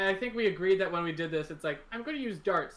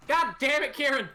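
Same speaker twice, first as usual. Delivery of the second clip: loud, high yell breaking into laughter; exasperated shout; 8 semitones higher, 8 dB louder than usual. Real, not acted. Player yelling at Kieran, exasperated shout. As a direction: yell it out, then crack up.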